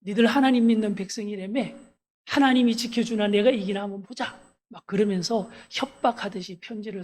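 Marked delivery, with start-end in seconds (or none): 0.0-4.4 mock taunting. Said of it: "하나님을 막 비아냥거려".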